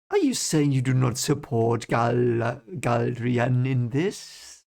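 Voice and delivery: lightly voiced count, probing; slow down into a leading question; Barthanes. Barthanes probing Rand's loyalty, in a slow, lightly put-on count's voice. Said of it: "trying to probe him".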